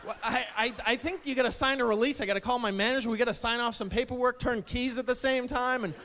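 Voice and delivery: hammed-up panicky clerk; mock alarmed clerk. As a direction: act flustered at a crazy order. Clerk alarmed at hot dog order.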